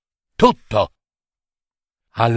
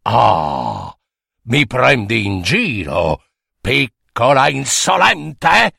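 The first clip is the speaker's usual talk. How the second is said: offended monster; 4 semitones lower than usual. Acted.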